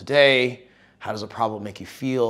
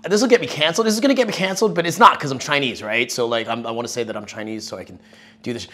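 excited; 3 semitones higher, 6 dB louder, much faster than usual. Retold or imitated. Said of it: "I go, uh".

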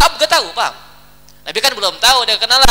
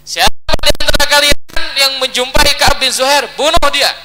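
loud, raised acted proclamation; forceful decree; 3 semitones higher, 4 dB louder than usual. Prophet's order to his followers retold, forceful decree.

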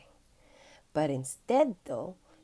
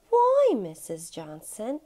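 put-on a breathy, surprised boyish whisper; young Albie, whispered; 3 semitones higher, 5 dB louder, slower than usual. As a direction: whisper it out of concern. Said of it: "Albie said".

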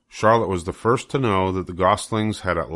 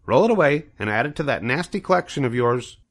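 scornful goose; 6 semitones higher, faster than usual. Acted. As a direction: shoo the rat away with disdain. Goose dismisses rat.

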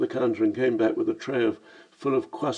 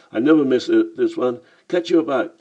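Cockney voice; 2 semitones higher, 6 dB louder than usual. Acted. Lamb leaving for train.

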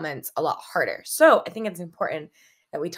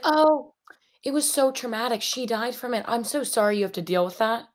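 mock sympathy; 4 semitones higher than usual. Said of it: "they'd be like".

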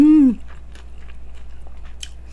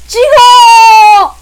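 excited shout; 12 semitones higher, 13 dB louder, much slower than usual. Real, not acted. Mukbang dipping cheer.

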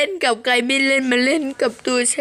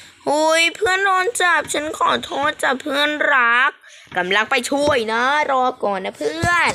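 character voice; 5 semitones higher than usual. Pretend. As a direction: pretend to be the mouse calling to a caught friend. Voicing her game character to friend. (เสียงตัวละครหนูพูดกับเพื่อน)

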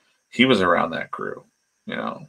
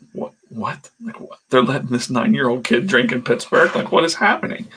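high, incredulous repeated what; mock disbelief; 5 semitones higher than usual. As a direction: sound stunned at what you see. Wrestlers shocked at kid drinking.

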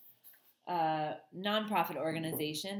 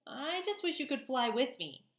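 high, drowsy wistful little bird; a lightly sleepy, longing wish; sleepy gosling voice; 8 semitones higher than usual. Acted. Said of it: "in his sleepy voice".

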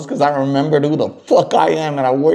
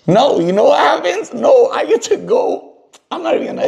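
frustrated outburst; 11 semitones higher than usual. Real, not acted. Caller bursts out again, frustrated.

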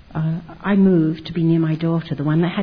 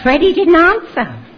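said through a real laugh, higher and louder; 11 semitones higher, 8 dB louder than usual. Real, not acted. Woman telling interviewer about Freddie, laughing. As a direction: laugh it out, amused at being ignored.

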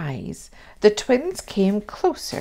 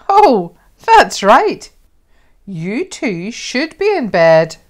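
sudden realisation; 3 semitones higher, 9 dB louder than usual. A narrator's reading. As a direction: catch yourself, playfully startled. Mum realises bedtime, playful.

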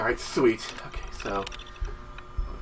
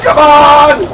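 high, raised urging; impatient shout; 6 semitones higher, 4 dB louder than usual. Real, not acted. Player still waits for a shot, high impatient shout. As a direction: push it out loudly, fed up with waiting. Last of three escalating urgings.

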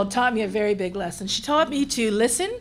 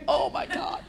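breathless laughing oh my God; 8 semitones higher, 6 dB quieter, slower than usual. Retold or imitated. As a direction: laugh through the words in disbelief. Staff panic retold, laughing.

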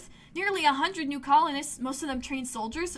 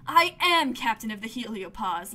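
stubborn; 2 semitones lower, 5 dB louder than usual. Acted. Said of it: "Lum repeats stubbornly".

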